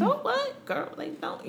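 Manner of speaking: high, sharp mock protest; imitating a tough dom. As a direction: play the offended dom brushing it off. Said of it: "tough dom, they'd be like".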